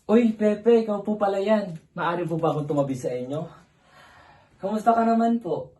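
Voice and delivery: high, loud, delighted hello; excited greeting. Acted. Greeting Pepe and asking to sit beside him, excitedly. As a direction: greet Pepe brightly, pitched well up.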